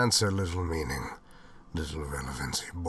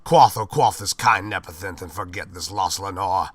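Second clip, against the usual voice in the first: crying out; 2 semitones higher, 6 dB louder than usual. Acted. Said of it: "I cried".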